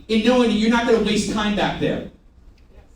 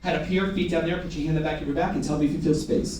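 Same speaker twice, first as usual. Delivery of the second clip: rapid run-through of instructions; fast; 4 semitones lower, 5 dB quieter, faster than usual. Shown as a demonstration. Trainer demonstrating the script for a trainee, fast. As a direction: rattle off the directions quickly. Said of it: "Do it as fast as me".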